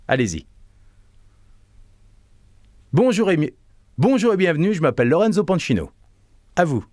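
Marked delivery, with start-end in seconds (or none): 2.9-5.9 bright welcoming "Bonjour" lifted high; presenter greeting. Shown as a demonstration. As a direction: greet the audience with energy. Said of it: "sur une seule expiration".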